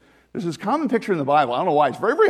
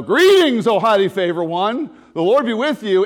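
voicing the angel; 3 semitones higher, 6 dB louder than usual. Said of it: "So the angel says to me".

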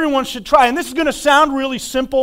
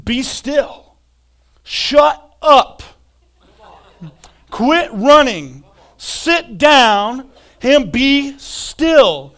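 firm command to soul; 2 semitones higher, 4 dB louder, much slower than usual. Pretend. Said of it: "speak to your soul and to say".

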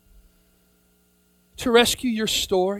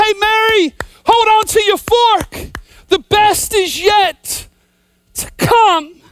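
higher, louder and slow, every word pressed; scream out to Mary; 7 semitones higher, 3 dB louder, slower than usual. Pretend. Preacher screaming out to grieving Mary, slow and loud. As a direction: cry out to her at the empty tomb. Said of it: "I wanna scream out".

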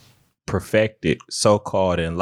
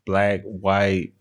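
underwater. Real, not acted. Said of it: "you sound like you're underwater".

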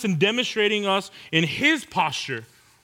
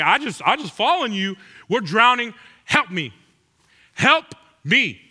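mock panic; 3 semitones higher, 3 dB louder than usual. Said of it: "People are over there like".

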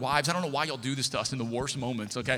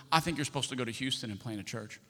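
earnest counsel; 3 semitones lower, 6 dB quieter than usual. Retold or imitated. Retelling pastor's solemn advice.

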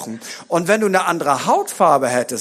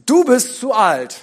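inner voice; 5 semitones higher, 4 dB louder than usual. Acted. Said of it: "diese Stimmen sagen in uns".

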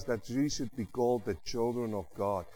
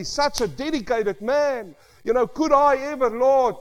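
retold prayer; 12 semitones higher, 9 dB louder, slower than usual. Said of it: "I look at that life of that man and I say".

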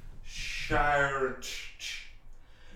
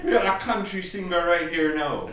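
loud Jamaican MC voice; Jamaican accent; 2 semitones higher, 4 dB louder than usual. Pretend. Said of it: "your Jamaican accent's so good".

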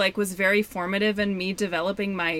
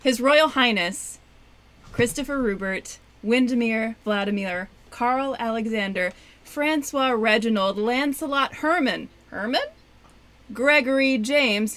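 royal announcement. Shown as a demonstration. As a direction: announce the full royal title. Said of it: "Prove it".

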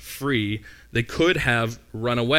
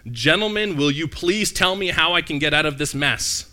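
desperate jailer; 4 semitones higher, 3 dB louder than usual. Retold or imitated. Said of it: "his translation is a more word-for-word translation".

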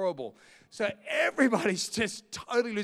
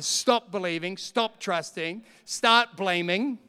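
slow emphatic; 6 dB louder, slower than usual. Shown as a demonstration. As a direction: start blaming, drawn out slowly and loud.

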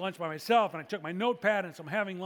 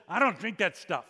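mock loud refusal, only moderately raised; 6 dB louder than usual. Guy refusing wine so the restaurant hears, mildly loud. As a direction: announce it for the whole room, half-strength. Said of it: "he says very loudly".

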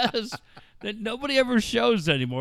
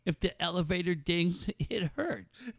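mocking whiny complaint; 2 semitones higher, 5 dB quieter than usual. Mocking Stossel's deafness whining to Barbara Walters. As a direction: whimper it like a wounded crybaby.

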